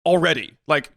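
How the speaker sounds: high, exasperated emphatic rant; indignant rant. Real, not acted. Indignant at being made to return.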